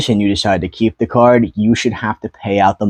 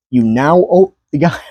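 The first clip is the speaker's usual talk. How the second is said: words cut by a hiccup; 5 semitones higher than usual. Real, not acted. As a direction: say it through a hiccup. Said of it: "sorry, I'm hiccuping".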